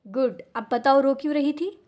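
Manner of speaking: soft tone. Acted. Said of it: "नरम लहजे में".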